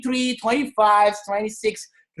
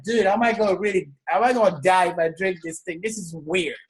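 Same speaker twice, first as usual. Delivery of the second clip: lower, softening aside of doubt; wary disbelief; 6 semitones lower, 3 dB quieter than usual. Retold or imitated. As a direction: retell your worried doubt in a low voice. Retold wary doubt before drinking shake.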